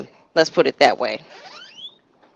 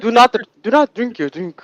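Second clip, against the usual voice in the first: put-on higher Nigerian-accented warning; 5 semitones higher than usual. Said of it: "Vicky with the African accent".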